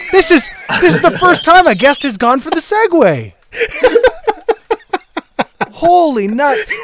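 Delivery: high, laughing through the words. Real, not acted. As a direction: crack up mid-sentence. Host cracking up at the guest.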